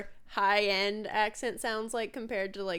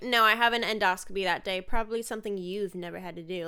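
snarky. Retold or imitated. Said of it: "Like, all snarky".

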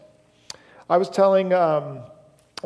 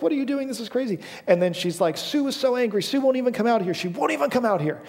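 mildly indignant grandma quote in a raised pitch; upset grandma; 6 semitones higher than usual. Retold or imitated. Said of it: "very angry and upset".

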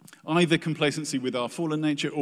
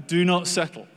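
louder and higher, urging hard; emphatic exhortation; 5 semitones higher, 6 dB louder than usual. Real, not acted. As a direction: call them out of settling. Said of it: "preacher repeats the exhortation".

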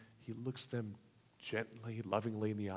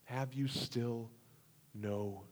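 slow, hushed questioning; gentle rebuke; 5 dB quieter, slower than usual. Acted. Jesus asks his disciples, a slow hushed rebuke. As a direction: ask softly, near a whisper. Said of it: "turns to his disciples and says".

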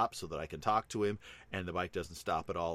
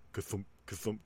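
imitated thumping; 2 semitones higher, 5 dB quieter than usual. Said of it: "going ka-thump".

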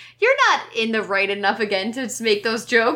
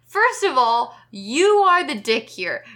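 slow, emphatic telling-off; indignant, deliberately weighted scolding; indignant rant. Real, not acted. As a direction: lay into him, word by word. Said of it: "I got so mad at that".

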